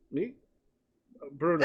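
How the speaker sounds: high, timid server squeak; a startled waiter peeping in. Acted. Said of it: "pokes his head in and goes".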